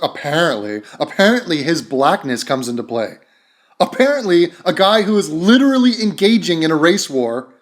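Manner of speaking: imitating her sarcasm on "apparently"; mock a smug, sarcastic commentator. Mimicking the woman he says thinks she's so smart, sarcastic. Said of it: "She's being sarcastic. She's like".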